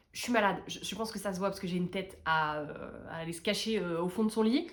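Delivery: voix enrhumée, nez bouché. Real, not acted. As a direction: parler le nez pris. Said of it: "J'ai le nez bouché". (nez bouché, voix de rhume)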